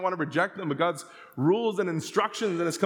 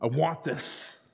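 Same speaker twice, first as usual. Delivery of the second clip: put-on childish refusal; 4 semitones lower than usual. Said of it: "And we're like".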